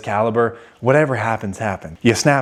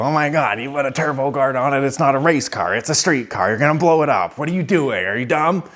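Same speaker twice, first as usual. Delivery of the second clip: mock yelling; 3 semitones higher than usual. Commenters berating him over the turbo guard, mock yelling. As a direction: mimic indignant commenters without really shouting. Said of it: "stop yelling at me in the comments".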